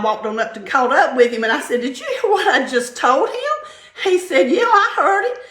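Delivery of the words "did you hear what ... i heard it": laughing retelling. Retold or imitated. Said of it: "I was about to die laughing".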